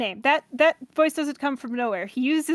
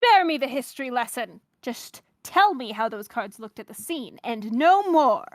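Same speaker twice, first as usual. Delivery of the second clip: measured mid-Atlantic prosecutor voice; halfway to British, formally delivered; light transatlantic accent for a formal questioner; 2 semitones lower than usual. Acted. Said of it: "a mid-Atlantic, transatlantic kind of thing".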